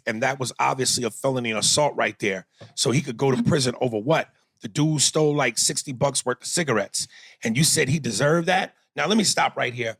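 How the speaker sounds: low, lightly put-on militant orator; Black Panther voice. Host reading a listener's rebuke of Aries, lightly voiced Black Panther. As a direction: deliver the complaint as a Black Panther, understated. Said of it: "in my Black Panther voice".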